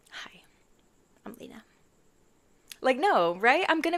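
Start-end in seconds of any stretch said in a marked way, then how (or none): 0.1-1.6 mock stiff greeting. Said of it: "am I gonna be like".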